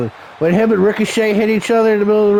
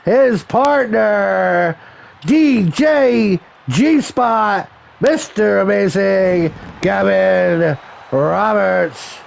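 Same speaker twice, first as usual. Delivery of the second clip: very slow, drawn-out ring introduction; ring announcer; much slower than usual. Pretend. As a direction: stretch every name for the arena.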